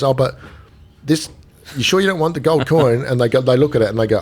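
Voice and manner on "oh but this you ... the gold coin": retold coaxing offer. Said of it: "and he goes".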